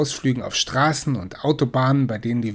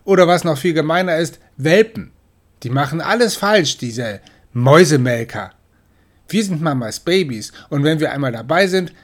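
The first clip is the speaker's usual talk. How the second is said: snorting scorn; 3 semitones higher, 4 dB louder than usual. Acted. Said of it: "Michel schnaubte".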